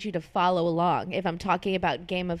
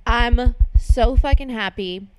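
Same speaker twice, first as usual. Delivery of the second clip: louder, gushing happiness; thrilled; 3 semitones higher, 7 dB louder than usual. Real, not acted. Host celebrating her bestseller, louder. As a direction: burst out with joy.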